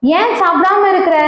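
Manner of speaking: lightly acted concerned husband; a touch of tender coaxing; gentle husband's asking. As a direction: ask sweetly, pausing between the questions. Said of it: "அழகா கேக்குறாரு பாருங்களேன்".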